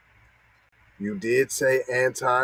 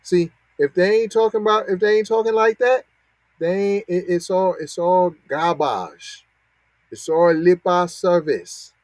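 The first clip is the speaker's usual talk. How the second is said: heated emphasis; 6 semitones higher, 4 dB louder than usual. Real, not acted. Heated point about reparations.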